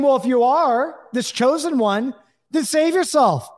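hanged criminal jeers at Yeshua, high and sarcastic; mocking criminal. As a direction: scoff at him from the next stake. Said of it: "this criminal was mocking Yeshua".

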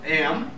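"am" set apart as a lone first syllable. Acted. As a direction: teach "am" as one separate, stressed piece. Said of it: "it's pronounced ambulance".

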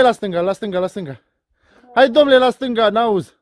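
loud directing. Real, not acted. Directing stuck man loudly.

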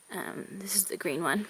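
out of breath. Real, not acted. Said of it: "Sorry if I sound like I'm out of breath".

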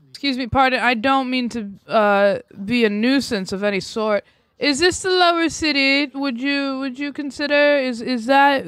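mock-polite pleading. Plays polite pest questioning a guard.

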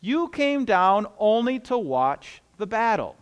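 lightly voiced scolding, slow and deliberate; measured rebuke of a younger brother; a touch of accusation, words drawn out; scolding older brother. Eliab's rebuke quoted to David.

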